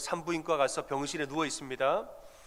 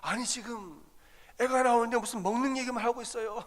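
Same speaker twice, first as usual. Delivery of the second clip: higher, annoyed complaint; wife in labour scolds her husband; exasperated scolding; 8 semitones higher than usual. Retold or imitated. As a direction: tell off the food-obsessed husband. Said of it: "한 소리를 했습니다".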